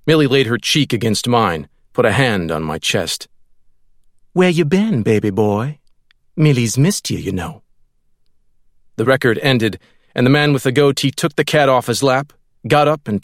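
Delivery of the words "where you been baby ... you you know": Millie's coo. A narrator's reading. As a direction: coo it like a clingy girlfriend. Millie coos to narrator.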